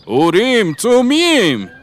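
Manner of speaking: high, loud astonished cry; shout. A narrator's reading. Foreign man cries out the stones' names, loud high shout. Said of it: "داد زد".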